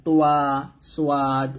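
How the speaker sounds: "তোয়া, সোয়াদ" with lips rounded into a "w" glide; rounded-lip mispronunciation. Shown as a demonstration. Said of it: "ঠোঁটটা গোল করে বলি".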